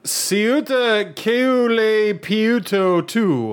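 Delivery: slow, drawn-out fake Korean pronunciation; mock Korean reading. Shown as a demonstration. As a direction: sound it out like Korean. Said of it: "No, it's StarCraft two".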